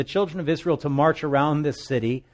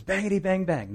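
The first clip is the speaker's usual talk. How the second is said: put-on playful kid gun noise, a bit higher; mock gunfire; 6 semitones higher than usual. Soldier aiming his broom, light mock gunfire. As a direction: chant it like a child playing war. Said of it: "aims at him and says".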